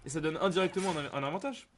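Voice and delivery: slight lisp on the s sounds; slushy lisped s. Real, not acted. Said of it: "j'ai un cheveu sur la langue".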